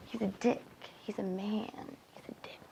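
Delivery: soft chant fading to a whisper; hushed taunting. Acted. Taunting Daisy about the man, fading whisper. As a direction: let each phrase drop further away. Taunting list after outburst.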